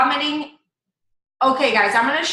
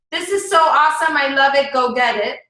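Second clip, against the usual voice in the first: pushy plug; 3 dB louder than usual. Shown as a demonstration. Coach contrasting deliveries for the group, pushy plug. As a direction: tell them to go buy, mildly pushy. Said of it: "it's your delivery".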